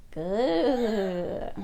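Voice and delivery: drawn-out mock growl; imitated growl. George playing dinosaur, drawn-out pretend growl. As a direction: growl like a little toy dinosaur.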